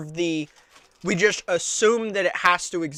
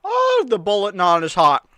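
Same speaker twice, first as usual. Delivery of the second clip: mouth burning from spicy food; 3 semitones higher than usual. Real, not acted. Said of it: "Mouth is burning".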